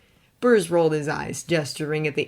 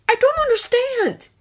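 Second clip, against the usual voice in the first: higher bewildered confession; confessing Clark; 7 dB louder than usual. A narrator's reading. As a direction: admit it, lost. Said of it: "he finally confessed".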